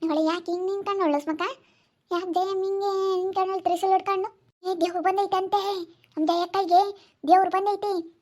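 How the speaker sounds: wondering aloud whether the goddess is real; doubtful neighbour woman. Acted. (ಸಂಶಯದಿಂದ ಕೇಳುವ ನೆರೆಮನೆ ಹೆಂಗಸು)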